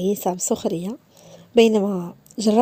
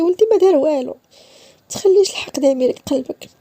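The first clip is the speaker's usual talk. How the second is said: tearful begging; 4 semitones higher than usual. Acted. Mother begging Issa to free her son, tearful. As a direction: beg for your son, near tears.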